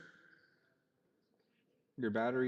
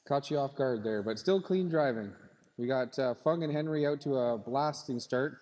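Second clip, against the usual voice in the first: live race play-by-play; 3 dB louder than usual. Real, not acted. Live race commentary to drivers.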